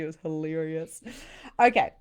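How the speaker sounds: ordinary talk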